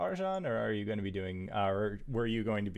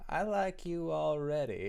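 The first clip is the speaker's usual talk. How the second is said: higher-pitched, pleased character voice; lightly acted, higher approving line; approving Graybeard; 7 semitones higher than usual. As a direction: voice a won-over Graybeard, pitched up. GM voices Graybeard taking the gold.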